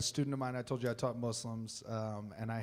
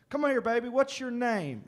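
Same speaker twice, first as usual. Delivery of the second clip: lightly voiced sweet Southern mom, a bit higher; 9 semitones higher, 4 dB louder than usual. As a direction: coo it like a kind Southern mother at customs. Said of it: "sweet Southern woman, like any of our moms".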